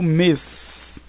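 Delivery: "mes" drawn out slowly; stressed syllable isolated. Shown as a demonstration. Teacher isolating a word's tonic syllable, "mes" held long. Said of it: "sílaba tônica é o A".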